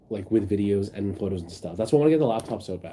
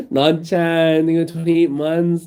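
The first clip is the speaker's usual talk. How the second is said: excited; 7 semitones higher, 6 dB louder, slower than usual. Real, not acted. Excited gasp thanking a subscriber.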